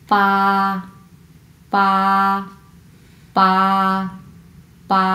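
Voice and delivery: "পা" with a p, long and level; p sound. Shown as a demonstration. Teacher modelling Chinese eight, p sound. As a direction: hold "পা" evenly after a crisp p. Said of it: "এটা হচ্ছে প এর উচ্চারণ".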